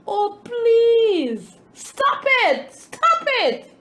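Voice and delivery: high, loud pleading cry; desperate cry. A narrator's reading. Bread begging the master to stop, high loud pleading. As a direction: beg him to stop, voice climbing high. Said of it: "I cried".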